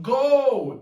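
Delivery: loud, high yell of go; retold shout. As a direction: bark the order to flee, mock yell. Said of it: "he screams out".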